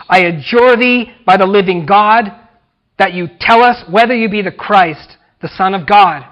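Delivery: loud, commanding demand; shouting high priest. Acted. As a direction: call him out in fury. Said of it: "the high priest answers and shouts out".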